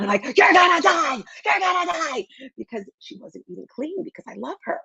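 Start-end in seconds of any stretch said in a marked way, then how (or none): 0.4-2.3 very high-pitched, very loud, repeated screaming. Retelling yelling at her mother on a live video: imitating her own screaming. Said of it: "I started screaming at her, and I started yelling".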